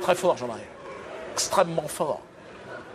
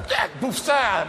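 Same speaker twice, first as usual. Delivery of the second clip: raised, hammed-up call tossing meat to dogs; a dog handler flinging raw meat; mock call to dogs; 5 semitones higher, much slower than usual. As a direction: toss it like scraps to hounds.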